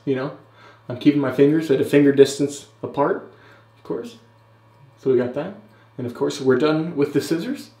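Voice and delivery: halting, lilting tutorial voiceover; Jack Malacco impression. Vlogger mimics a beard YouTuber talking through his tools, mock-instructional impression. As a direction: narrate each step with exaggerated pitch swoops and pauses. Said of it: "This is my impression of Jack Malacco trimming his beard".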